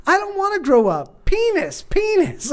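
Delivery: put-on very high little-boy chant; imitated defiant child. Son acting up in the dressing room, imitated defiant child. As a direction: crow it like a bratty kid.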